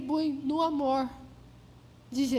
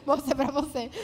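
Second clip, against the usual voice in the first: flat, dry "Moça, é pra você"; curt and dry; 2 semitones lower than usual. Retold or imitated. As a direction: say it grudgingly. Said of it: "É bem seca assim".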